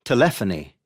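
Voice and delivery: telephony as te-LEPH-o-ny; shifted stress. Shown as a demonstration. Teacher showing the shift, telephony stressed on LEPH. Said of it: "word stress does not stay on the same".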